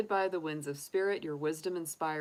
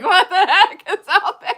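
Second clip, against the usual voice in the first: mock scared camper; 14 semitones higher, 18 dB louder than usual. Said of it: "You're like".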